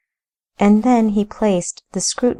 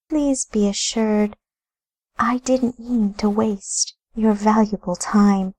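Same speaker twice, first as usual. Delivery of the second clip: higher, courteous lady; polite lady voice; 3 semitones higher than usual. Acted. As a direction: play a gracious lady dismissing a guest. Narrator voices Amelia.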